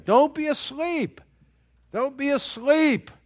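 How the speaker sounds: high, pressing preacher's warning; impassioned "Don't be asleep" plea; urgent exhortation. Acted. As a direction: rouse sleepers with a high urgent call. Preacher urging the congregation.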